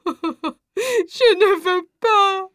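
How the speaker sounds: slow, sobbing, half-laughing breakdown; broken sobbing. Acted. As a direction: let the words collapse into sobs. Mother dragged away sobbing.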